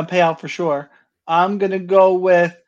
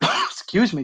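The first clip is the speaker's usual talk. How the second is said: clearing throat; 4 semitones higher, 3 dB quieter, slower than usual. Real, not acted. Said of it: "I'm not coughing to that 'cause it's not fake".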